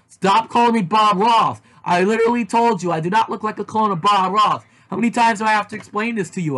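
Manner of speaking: a mock angry rant; annoyed yell. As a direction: snap back in frustration. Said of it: "I screamed".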